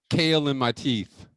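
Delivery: ordinary delivery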